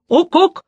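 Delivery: высокий, громкий козлиный крик; резкое «Ук-ук!» как у козла; козлиное блеяние. A narrator's reading. Козлоногий дьявол грозит рогами. (чёрт по-козлиному пугает эльфов рогами)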